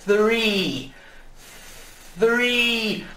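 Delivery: "Three" slow, tongue between teeth; th sound demo. Shown as a demonstration. A teacher modelling "Three" for students, tongue visible. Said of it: "dá uma olhadinha como você faz o som".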